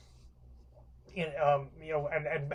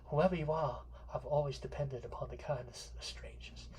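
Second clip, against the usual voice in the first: dropped quieter, trusting and lost; softer, resigned final line; softer, fragile Blanche; 6 dB quieter than usual. Retold or imitated. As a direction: let "I've always depended upon the kindness of strangers." fade out gently. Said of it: "and she says".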